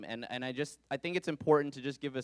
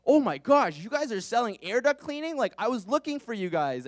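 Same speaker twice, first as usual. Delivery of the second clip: mock excitement; 8 semitones higher, 4 dB louder than usual. Mock delight at telemarketer call.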